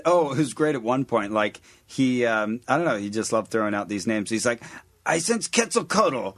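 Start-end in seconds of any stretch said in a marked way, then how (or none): 5.1-6.3 booming mock exorcist; preacher voice. Imitating Bob Larson sensing demons.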